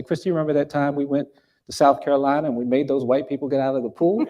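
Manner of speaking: quick teasing question, ending in a laugh; laughing retelling. Retold or imitated. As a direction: tease her sister with the old story. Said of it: "I would say to my sister".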